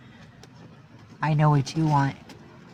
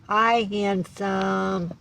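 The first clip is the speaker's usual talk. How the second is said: drawn-out sweet hello; slower flirty cat greeting; 2 semitones higher, much slower than usual.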